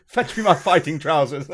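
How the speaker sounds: lightly voiced pompous English gentleman; mock-grand command breaking into a laugh; a rapper. Gamer ending the roleplay quarrel, impression of a rapper. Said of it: "turn to the rapper".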